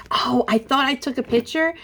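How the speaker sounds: whispered aside, breathy and hushed. Real, not acted. Sneaking a picture, she whispers to herself.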